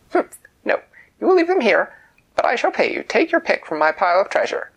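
very high, loud imperious queen; shrill royal command; leprechaun queen. Acted. Queen insisting.

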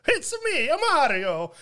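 put-on stereotypical Italian accent. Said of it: "Stereotypical Italian".

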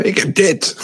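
half-hearted high mock yell; mock shout. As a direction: imitate an excited team shouting without volume. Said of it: "mensen aan het schreeuwen van".

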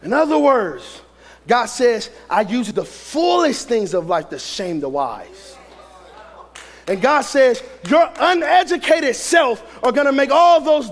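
forceful sermon delivery with punched key words; preaching. Real, not acted. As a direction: preach it hard to a congregation.

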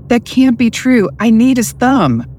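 high, rising panic; panicked disbelief. A narrator's reading. Nathan panicking to Mister Cooper, high alarmed voice. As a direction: voice jumps up in alarm.

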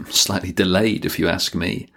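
a wry laugh, then a dry aside; amused, sarcastic jab at the government. Real, not acted. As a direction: chuckle through the sarcastic remark.

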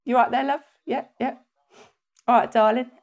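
chirpy Cockney banter at the stall; a hint of Cockney market chatter; Cockney market trader. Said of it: "speaking like that is when they're on a market".

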